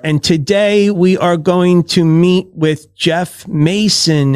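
slow, scripted podcast-host announcement; mock a canned show opening; stiff host intro. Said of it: "the podcast that I have trouble with are".

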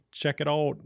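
light demo Fargo accent. Shown as a demonstration. Showing listeners a typical Fargo accent, lightly done. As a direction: give it a hint of Fargo. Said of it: "kinda accent".

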